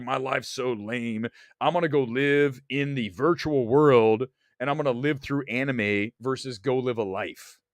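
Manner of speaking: mock whiny fan. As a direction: sneer at them by sounding lame and listless. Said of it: "they're like".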